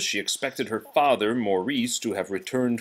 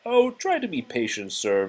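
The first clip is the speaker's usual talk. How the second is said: high, coaxing; calm the master down; soothing teapot; 3 semitones higher than usual. Acted. Mrs Potts calming the impatient beast. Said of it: "Missus Potts said".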